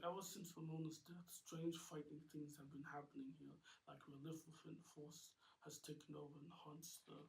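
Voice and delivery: lightly voiced solemn studio owner; a hint of a haunted old uncle; James Pollock, grieving. Uncle telling the kids of the haunting, lightly voiced.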